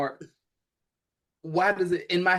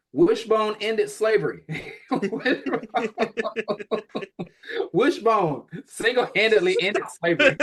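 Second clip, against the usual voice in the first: laughing; 6 semitones higher than usual. Real, not acted. Mock grand claim, laughing.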